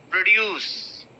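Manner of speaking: Produce with a bare pr, stress on DUCE; pr not pro. Shown as a demonstration. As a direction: slur pro into pr, land on DUCE. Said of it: "It's pr".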